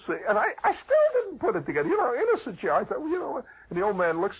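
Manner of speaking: ordinary delivery, nothing marked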